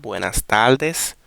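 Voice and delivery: buenas tardes said slow and even; relaxed, no strong stress. Shown as a demonstration. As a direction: let buenas tardes glide slowly without punching a syllable. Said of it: "we pronounce the words relax".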